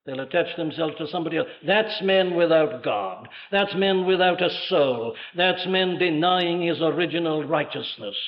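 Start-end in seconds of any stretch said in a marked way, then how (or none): none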